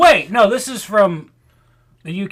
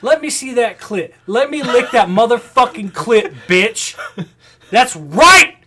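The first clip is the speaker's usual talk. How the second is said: excited yelling; 6 semitones higher, 6 dB louder than usual. Retold or imitated. Acting out his own excited rant.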